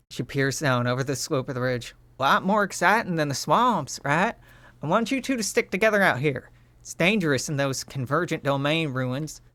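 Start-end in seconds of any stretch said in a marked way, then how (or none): 2.2-9.4 higher, bright cheerful character voice; Utopia's voice. Acted. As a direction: praise them like a proud teammate. Utopia voiced in game scene.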